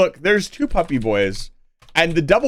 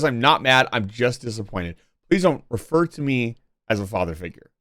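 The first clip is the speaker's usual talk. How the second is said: soft, quieter mock disappointed father; a hint of a let-down dad; 5 semitones lower, 3 dB quieter than usual. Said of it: "you sound like a dad who says".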